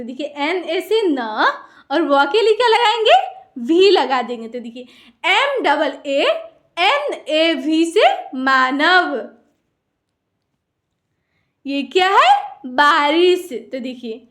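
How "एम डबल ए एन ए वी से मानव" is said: slow, deliberate letter-by-letter spelling. Shown as a demonstration. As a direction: spell it out slowly for beginners. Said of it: "spelling out for pupils". (धीरे-धीरे अक्षर बोलकर)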